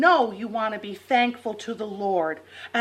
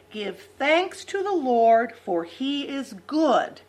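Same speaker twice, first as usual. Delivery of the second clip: put-on broad singsong kids theatre; 3 semitones lower, slower than usual. Shown as a demonstration. Reciting Bible verse to kids.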